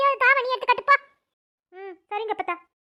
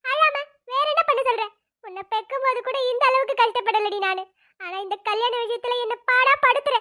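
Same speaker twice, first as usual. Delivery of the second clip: crying mother; 2 semitones higher than usual. Acted. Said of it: "ஏம்மா இப்ப அழறீங்க".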